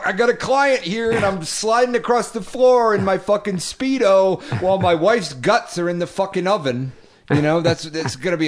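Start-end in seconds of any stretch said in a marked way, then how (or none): 0.0-6.9 high, loud hammed-up gigolo voice; a movie gigolo bragging while the oven cooks; mock sleazy gigolo. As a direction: ham up the oblivious escort, pitched up and loud. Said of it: "I was gonna be like".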